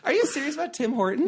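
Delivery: mock sob. Crying-laughing mock distress.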